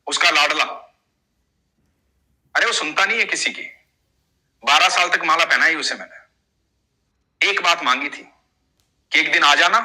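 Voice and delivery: a touch of hurt anger in the complaint; grumbling to the boy about Krishna; mild angry devotee. Acted. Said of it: "गुस्से में दिखाई दे रहे हो".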